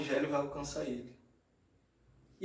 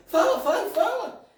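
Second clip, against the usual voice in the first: raised, louder mock demand; acted insistent demand; 13 semitones higher, 6 dB louder than usual. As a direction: play a father pressing for an answer, high and insistent. Father pressing son to talk. (imitando o pai insistente, voz alta e aguda)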